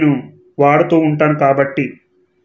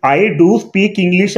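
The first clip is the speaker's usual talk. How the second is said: "do" stressed and drawn out, slow and deliberate; emphatic stress on do; 3 semitones higher, much slower than usual. Shown as a demonstration. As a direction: lean hard on "do" in "I do speak English". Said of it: "emphatic".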